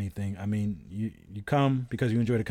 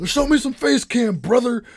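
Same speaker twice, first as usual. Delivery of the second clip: laughing mock request; 10 semitones higher, 6 dB louder than usual. Mocking chat request, laughing.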